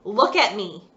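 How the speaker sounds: firm, stern warning; a stern father's warning. Acted. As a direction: lay down the law. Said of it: "He said sternly".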